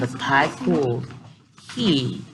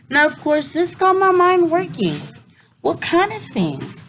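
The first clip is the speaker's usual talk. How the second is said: excited; 13 semitones higher than usual. A narrator's reading. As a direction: let curiosity bubble up. Curious excited narration.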